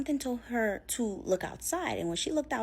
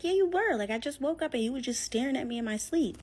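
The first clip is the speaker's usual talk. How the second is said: insistent; 5 semitones higher than usual. Retold or imitated. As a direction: push back hard, voice jumping up. Wife insists he was staring.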